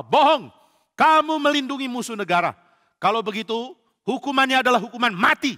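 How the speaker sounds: furious king raging at the priest. Acted. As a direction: spit out the death sentence. King sentences priest to death.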